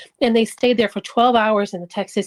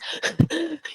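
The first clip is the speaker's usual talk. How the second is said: short breathless gasps; imitated gasping; 6 semitones higher, 7 dB quieter than usual. Wife showing how her husband couldn't breathe, gasping. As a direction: act out struggling for breath. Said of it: "can't breathe".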